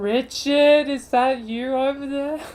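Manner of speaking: effortful calling out, as if yelling across a distance. Acting a scene, calling across rooftops, as if trying to yell. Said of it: "make it sound like we're trying to yell".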